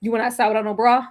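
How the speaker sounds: lightly voiced scolding grandma, a bit quick; scolding grandmama. A hint of grandmama scolding a braless granddaughter. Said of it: "that be like".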